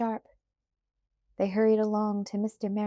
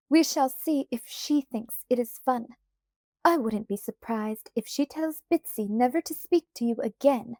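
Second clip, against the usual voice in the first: put-on threatening to tell her mother, a prim young lady; haughty girl scolding; 3 semitones higher, 4 dB louder than usual. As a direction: lord it over her like a spoilt rich girl. Annabel scolds Felicity haughtily.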